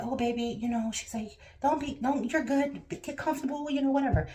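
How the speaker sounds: high-pitched, kindly tech voice; imitated reassurance. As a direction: imitate a tech putting a patient at ease. Ultrasound tech reassuring her, retold.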